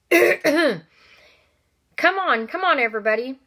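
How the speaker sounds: high, loud hearty call; Vernon calling out. Acted. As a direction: round everyone up with a booming call. Vernon herding family out.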